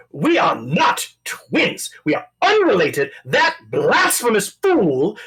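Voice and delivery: angry chef voice. Acted.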